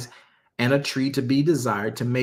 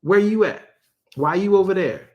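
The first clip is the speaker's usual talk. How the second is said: God calling out; 6 semitones higher than usual. Acted. God calls Adam out from behind trees, higher street-talk call. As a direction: call him out of hiding.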